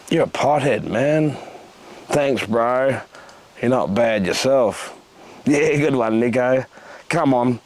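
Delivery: rhythmic performance-poet delivery, voicing his stoned mates; spoken-word poem. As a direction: bring the stoner scene to life line by line. Performs a poem about smoking dope.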